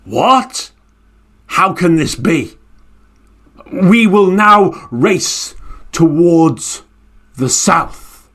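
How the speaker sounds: slow, stunned bird voice; disbelief, then slow new orders; astonished Garuda bird. Acted. Garuda bird startled to find the turtle ahead, slowly astonished.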